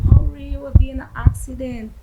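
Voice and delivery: disbelieving cry. Retold or imitated. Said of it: "And I was screaming".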